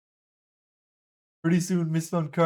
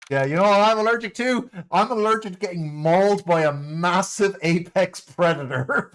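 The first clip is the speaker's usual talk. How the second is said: loud retort; 3 dB louder than usual. Real, not acted. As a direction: fire back, loud. Mock-indignant retort.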